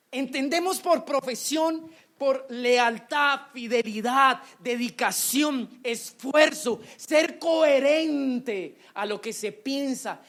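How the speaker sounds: loud, slow, word by word preaching; fervent sermon cadence; preaching at full force. Real, not acted. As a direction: hammer each virtue home to the congregation. Preacher building on the keyword.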